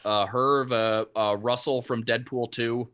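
tinny, lo-fi mic; AM radio sound. Real, not acted. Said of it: "you sound like you're on A M radio right now".

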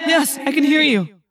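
urgent answer. A narrator's reading. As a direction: call back urgently to a distant friend. Urgent answer to trapped friend.

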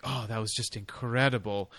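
softly sheepish, lightly acted. Young lover feigning doe-eyed innocence afterwards, mildly sheepish. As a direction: play a mild sheepish innocence. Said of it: "just sheepishly".

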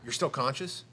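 stunned whisper. Retold or imitated.

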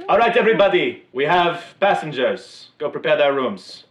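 loud, high bellowed orders to the crew; captain shouting orders. Acted. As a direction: call the crew to work at full voice.

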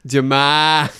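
DeMar DeRozan in a thick Boston accent. Shown as a demonstration. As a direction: drop the r's, Boston style. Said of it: "I'm gonna do it for you now".

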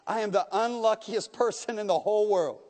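lightly acted terrified pleading; near scream. The lost boy begs the unseen voice in the dark, lightly acted panic. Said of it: "almost in a scream".

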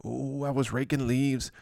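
lightly voiced moaning injured player; Jay Waddle. Player explaining a raking injury to guys, mock moaning. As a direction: groan through a mock backache. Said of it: "Jay Waddle's got a Q".

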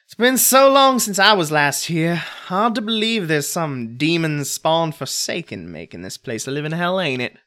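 loud, rough grumble; gruff hunter. Acted. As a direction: spit it out like a hardened tracker. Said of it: "snorts once, spits, and says".

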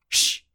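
sharp loud "shh"; a short burst of shush; imitated shushing. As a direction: mimic a giggler shushing himself. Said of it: "he's giggling, going".

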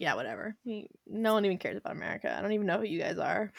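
bored, fast, dismissive brush-off; mock-bored Catherine brushing off America. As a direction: shrug it off quickly and softly. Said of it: "And she's like".

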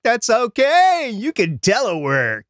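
high, slow put-on voice of a boss; mock boss voice. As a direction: parody the employer's cheerful refusal. Son's employer voiced on telework.

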